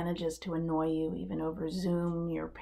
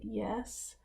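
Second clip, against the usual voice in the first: a timid, small yes, pitched up; terrified; 5 semitones higher, 5 dB quieter than usual. Retold or imitated. Tattooed homie at the microphone, answering in terrified voice. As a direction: voice the scared young man, barely daring.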